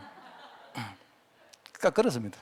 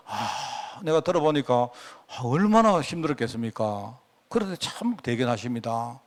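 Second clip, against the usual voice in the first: empathetic reply; 4 semitones lower, 4 dB quieter than usual. Shown as a demonstration. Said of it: "공감하는 언어 습관을 훈련해야".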